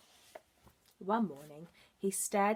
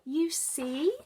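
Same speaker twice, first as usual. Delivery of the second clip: cheerful frog; 7 semitones higher, 4 dB louder than usual. Acted.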